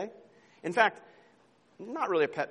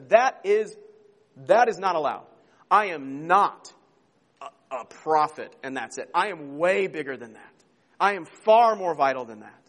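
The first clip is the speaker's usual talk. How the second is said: louder, emphatic declaration; Jesus correcting the disciples, a touch louder; firm Jesus; 5 dB louder than usual. Retold or imitated. Preacher voices Jesus' rebuke.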